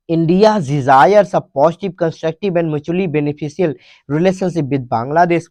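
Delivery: each English word read out slowly and clearly; slow dictation reading. Shown as a demonstration. Teacher reading the headline aloud to students, slow and clear.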